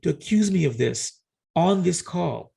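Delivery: slow, deliberate rebuke; measured, emphatic indignation; retold indignation. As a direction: spell out the outrage word by word, retelling it. Retelling his angry accusation.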